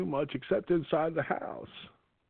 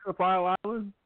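Jimmy Carter impression; 4 semitones higher than usual. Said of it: "there's a different president involved".

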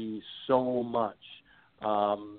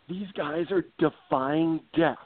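Chris Economaki impression; 5 semitones higher, slower than usual. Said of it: "He would always say".

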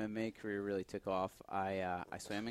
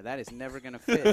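raised, high-pitched comic objection; retold panic, pitched way up and louder; mock alarmed protest; 13 semitones higher, 6 dB louder than usual. Patient objecting to the nurse about the camera, mock alarmed protest.

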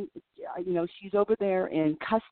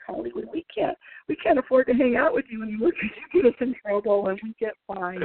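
imitating whiny girls; 5 semitones higher than usual. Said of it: "And they're like".

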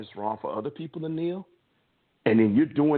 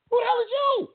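mocking jab; 4 dB louder than usual. Mocking Jerry Jones's attitude.

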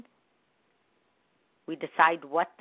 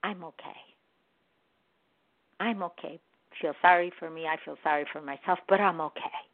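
softer, mopey mock self-pity; 3 dB quieter than usual. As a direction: imitate someone sulking that they're okay. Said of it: "I always get the whole".

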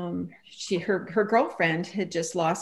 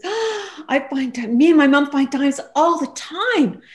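stumbling start, then a much louder, higher rush; imitating the young woman bursting out; excited blurt; 7 semitones higher, 8 dB louder, slower than usual. Young woman eagerly telling her about finding dimes, excited. Retold eager answer after a gasp.

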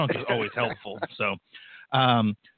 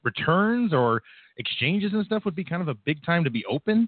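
incredulous; 5 semitones higher than usual. Retold or imitated. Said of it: "And you're like".

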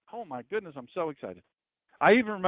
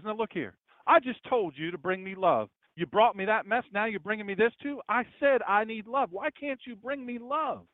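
a touch higher, scolding wife; mock angry wife; 4 semitones higher than usual. Wife scolding husband again for bringing soup, mock angry. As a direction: play the exasperated wife, mildly heated. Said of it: "red fire with anger".

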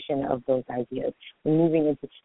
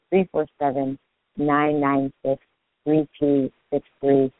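digits read slowly, in separated groups; unhurried, spaced-out digit groups; slowed-down phone number; slower than usual. Real, not acted. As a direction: give the number slowly so callers can note it. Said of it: "hopefully I slow down for you".

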